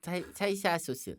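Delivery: 살사 소스 slow, s slipping toward sh; careful 살사 소스 with a lisping s; slushy sh for s. Shown as a demonstration. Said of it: "시옷 발음이 이건 엇갈라고 봐요".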